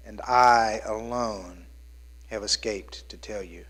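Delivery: slow, then whispered; slow fading into a whisper; hushed messenger. Acted. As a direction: breathe it out as the lone survivor. Messenger's last words in reading.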